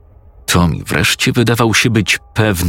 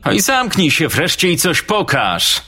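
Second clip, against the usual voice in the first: much higher, rude bully yelling at him; impatient yell; 11 semitones higher than usual. Acted. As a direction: snap at the boy to get on with it. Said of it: "wrzasnął Oberstrom".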